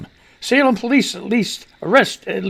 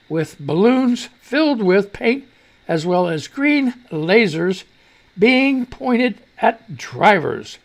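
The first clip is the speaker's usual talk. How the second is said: careful slow reading. Shown as a demonstration. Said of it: "we gotta get it right".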